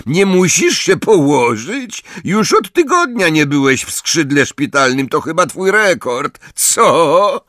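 high-pitched mock concern; taunting shout. A narrator's reading. Malfoy mocking Potter's hospital visits, shouted high. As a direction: jeer it with false concern, high. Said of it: "krzyknął Malfoy".

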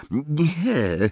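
a quick, emphatic refusal; firm denial. A narrator's reading. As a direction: deny it firmly. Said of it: "zaprzeczył stanowczo Harry".

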